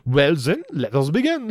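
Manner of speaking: pompous shout. Acted. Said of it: "he shouts".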